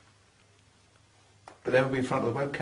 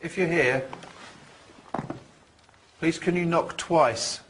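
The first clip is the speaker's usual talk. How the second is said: slow, raised plea to a spirit; talking to a ghost; 5 semitones higher, slower than usual. Real, not acted. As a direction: ask the ghost slowly and clearly. Séance call to spirit.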